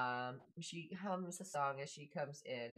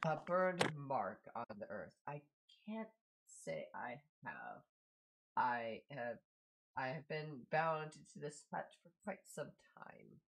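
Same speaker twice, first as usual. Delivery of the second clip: lightly voiced pondering father, halting delivery; a hint of a reflective hermit; housebound father. Game master voices father.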